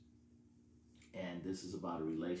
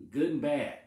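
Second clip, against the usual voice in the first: emphatic declaration; 7 semitones higher, 10 dB louder than usual. Real, not acted. Preacher insisting on praise in all times.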